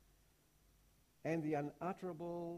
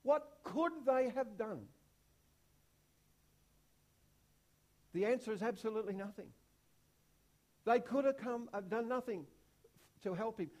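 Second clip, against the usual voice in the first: preaching at full force; 4 semitones higher, 6 dB louder than usual. Real, not acted. Preacher pressing the congregation, rising and loud. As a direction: drive the question home to the congregation.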